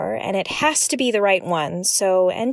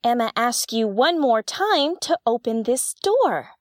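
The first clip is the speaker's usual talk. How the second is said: punchline delivery. Acted. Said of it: "delivered with appropriate emotion".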